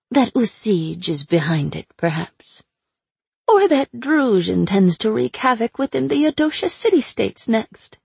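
sly, mocking captive witch; taunting sorceress voice. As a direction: purr it out like a cruel captor. Aina teasing.

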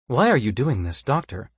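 flat, even android delivery; monotone robot voice. Acted. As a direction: ask it like a machine without feeling. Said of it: "the android asked in its monotone voice".

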